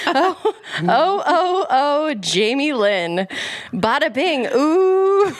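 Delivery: hammed-up lyric read with giggly high ohs; dramatic reading. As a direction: draw out the name, swoop up on the ooh. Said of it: "Dramatic reading, cold read".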